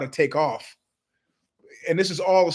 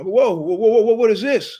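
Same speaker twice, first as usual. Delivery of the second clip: put-on alarmed kid; 5 semitones higher, 5 dB louder than usual. Kid discovering homework, louder.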